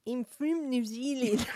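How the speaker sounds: slow, laughing attempt at a New Zealand accent; a bad, giggly New Zealand accent; a failed New Zealand accent, breaking into laughter. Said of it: "I'm gonna do a New Zealand accent".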